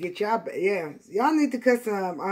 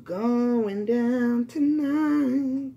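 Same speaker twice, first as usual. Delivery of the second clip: heard message voice; 4 semitones higher, 4 dB louder, much slower than usual. Retold or imitated. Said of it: "And I hear".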